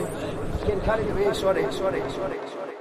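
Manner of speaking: sorries fading to a breath; fading apologies. Real, not acted. Guest apologising to the host, fading to a whisper.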